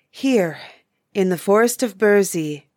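defiant, sure echo of the question; bold reply. A narrator's reading. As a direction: answer back boldly with a firm fall. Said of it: "replied the nymph boldly".

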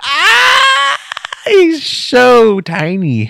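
high, loud, slow squeal; cooing baby talk. Acted. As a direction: coo it like at a puppy. Mock cooing over short man.

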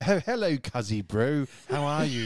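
put-on posh English accent. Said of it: "very posh English person".

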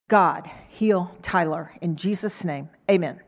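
a worn-out mother rattling off a prayer; perfunctory tired prayer; tired quick prayer. Retold or imitated. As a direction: mumble it, tired after a long day. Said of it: "It had been a long day".

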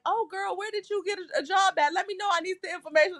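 high, sugary church lady voice; a nosy, excited girlfriend asking; eager church lady. Retold or imitated. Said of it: "the pastor's daughter-in-law was like".

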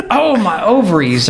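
high mock squeal of pain; mock pained cry. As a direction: squeak it out like a hurt man. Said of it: "he says".

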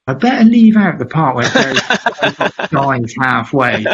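breaking into a laugh mid-thought; laughing aside. Retold or imitated. Jamie thinking to himself mid-story, laughing. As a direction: giggle through the punchline.

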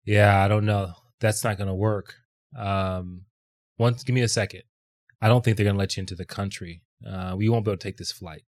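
low, softened imitation of an unruffled agent; very calm. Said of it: "Very calm".

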